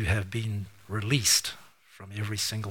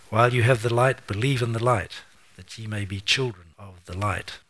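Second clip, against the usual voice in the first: louder King James reading voice; scripture reading; 3 dB louder than usual. Acted. Preacher reading Jesus' answer to the people, loud and measured. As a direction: read it out with pulpit weight. Continues reading John twelve.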